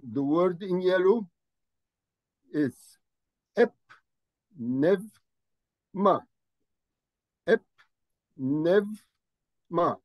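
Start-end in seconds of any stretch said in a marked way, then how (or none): 3.5-6.2 ep, nev, ma said as separate syllables. Shown as a demonstration. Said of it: "I said ep". 7.5-9.9 ep, nev, ma said as separate syllables. Shown as a demonstration. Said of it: "I said ep".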